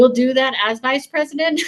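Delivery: can't believe what she just said; incredulous. Real, not acted. Disbelief at the debate clip.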